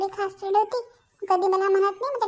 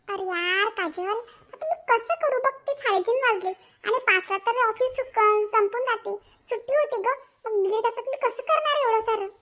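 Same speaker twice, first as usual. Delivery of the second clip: whiny near-tears; 3 semitones higher than usual. Acted. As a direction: plead helplessly about the deadline. Overwhelmed clerk whines to friend. (रडकुंडीला येऊन तक्रार)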